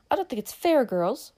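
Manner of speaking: loud, high and defiant; loud declaration. A narrator's reading. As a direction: declare it loudly to the table. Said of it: "she declared in a loud voice".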